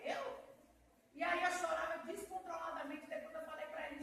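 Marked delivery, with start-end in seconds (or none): 0.0-0.5 surprised. Retold or imitated.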